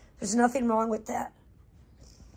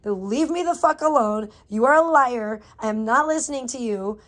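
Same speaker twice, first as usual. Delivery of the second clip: forceful, louder rebuke; telling off; 7 dB louder than usual. Retold or imitated. Telling the panic voice in her head to back off, angry and forceful. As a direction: push each sentence out as a firm refusal. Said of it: "tell that voice to shut the fuck up".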